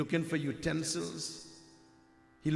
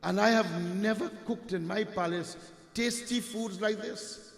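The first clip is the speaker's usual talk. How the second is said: lightly voiced king, higher and wondering; a king marvelling, curious about the secret; king tells his secretary to find the secret, amazed; 4 semitones higher than usual.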